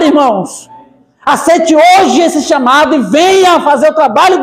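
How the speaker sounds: apelo de pregador em tom alto e firme; pregação inflamada. Acted. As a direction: conclame a igreja com força. Pastor exorts the church. (pastor chamando os irmãos à obra, pregação inflamada)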